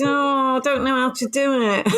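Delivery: lightly put-on helpless plea; mock helplessness. Co-host quotes her own catchphrase, lightly mock-helpless. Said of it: "No, the other one is".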